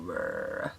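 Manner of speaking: deep raspy throat rumble. Shown as a demonstration. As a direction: growl out a low raspy rumble. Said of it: "That's what it sounds like to me".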